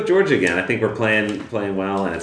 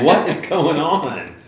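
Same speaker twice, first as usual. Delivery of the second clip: baffled fan; 8 semitones higher, much slower than usual. Retold or imitated. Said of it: "I'll be like".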